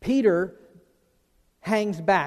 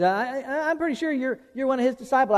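accusing bystander; 6 semitones higher than usual. Retold or imitated. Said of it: "He says".

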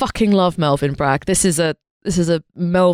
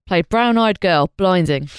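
geezer voice. Pretend. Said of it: "a geezer would call it vino blanco".

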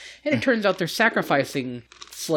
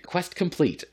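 higher-pitched mock quest announcement; game notification; 7 semitones higher than usual.

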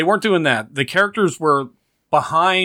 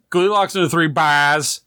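"Three Bears" as Boston "Three Bahs", no r; mother's thick Boston accent, r dropped; 3 semitones higher than usual. Retold or imitated. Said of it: "with a thick Boston accent".

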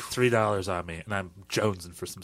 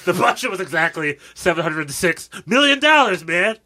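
exasperated; 10 semitones higher, 12 dB louder than usual. Pretend. Laughing exasperated improv.

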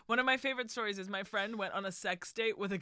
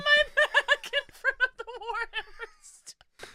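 mocking imitation; 7 dB louder than usual. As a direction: parrot him in an upset whine. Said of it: "Exaggeration, word for word".

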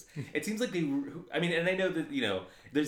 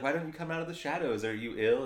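put-on light servant girl; 5 semitones higher, faster than usual. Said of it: "but she's like".

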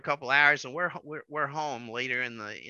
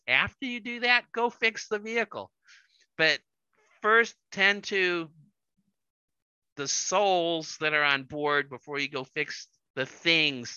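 pleading wife; 4 semitones higher, 4 dB louder than usual. Retold or imitated. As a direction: gently spell out what she needed. Wife quoted teaching husband.

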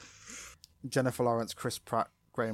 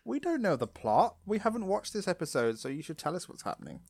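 higher-pitched mock complaint, dropping off at the end; mock listener complaint; 7 semitones higher than usual. Listeners complaining to the podcasters, mock high-pitched complaint. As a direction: imitate whining listeners, pitched up.

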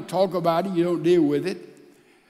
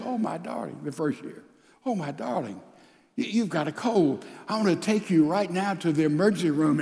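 soft, tender at first, then fast and fussing; doting husband; 3 dB quieter, faster than usual. Retold or imitated. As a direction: fuss lovingly over a wife's cold. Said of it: "he says".

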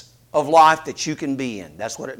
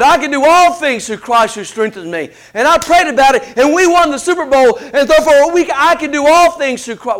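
imitating athlete; 5 semitones higher, 4 dB louder than usual. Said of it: "like the athlete says".

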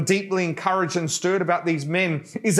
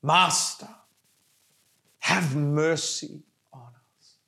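slow, separated phrases of a cried prayer; prayer cry; slower than usual. Acted. Preacher leading the congregation in prayer, crying out to Jesus. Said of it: "Come on, pray that prayer".

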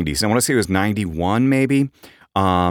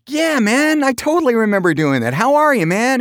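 imitating a singer. Radio host imitating a singer greeting him backstage, eager and high. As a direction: play the singer as a buddy delighted to see you. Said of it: "he's like".

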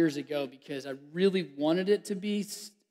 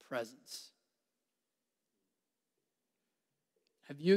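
still, unhurried. Acted. Preacher gently asking listeners about God's stillness. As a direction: let each word rest in silence. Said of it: "calm reflective question to listeners".

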